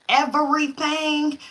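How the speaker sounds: EVERYTHING drawn out slowly, syllable by syllable; emphatic stress. Real, not acted. Stressing how much she felt.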